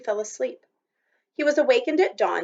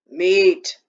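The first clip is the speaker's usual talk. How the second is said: stubborn; 7 dB louder than usual. A narrator's reading. Repeated stubborn demand.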